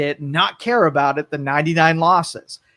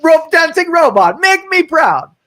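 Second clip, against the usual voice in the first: much higher, louder hammed-up Russian accent; a big cartoon Russian strongman voice; mock Putin Russian accent; 12 semitones higher, 6 dB louder than usual. Putin praising the dancing robot in a hammed-up Russian accent. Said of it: "Vladimir Putin".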